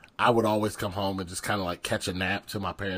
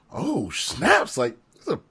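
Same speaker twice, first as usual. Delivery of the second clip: high, loud, laughing excitement; a kid who can't believe his luck; squealing, laughing over a big deal; thrilled; 10 semitones higher, 8 dB louder, slower than usual. Retold or imitated. Getting a college coach's call.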